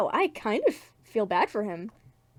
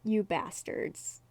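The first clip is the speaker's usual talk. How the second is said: flat delivery; 4 dB quieter, much slower than usual. Acted. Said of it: "Why did I say it like that?".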